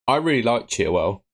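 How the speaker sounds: muffled, talking into a cup; speaking into a cup. Real, not acted. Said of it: "I'm speaking into the cup".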